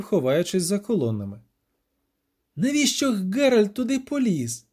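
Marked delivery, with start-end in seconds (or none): 2.6-4.7 high, moaning lament; groaning. A narrator's reading. Dandelion groans about Geralt, high and despairing. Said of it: "застогнав Любисток".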